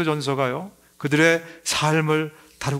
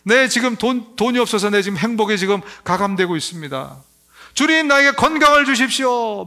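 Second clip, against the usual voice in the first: mock pleading prayer, much higher; whining prayer; 5 semitones higher, 3 dB louder than usual. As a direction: whine to God like a needy baby, hammed-up. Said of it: "하나님 앞에 나가서 막 울어요". (필요할 때만 하나님께 조르는 신자를 흉내 낸 높은 칭얼거림)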